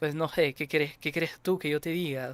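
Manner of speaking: speaking with Venezuelan accent. Showing that you know how to do it, imitating a Venezuelan accent. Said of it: "I know how to do the Venezuelan accent".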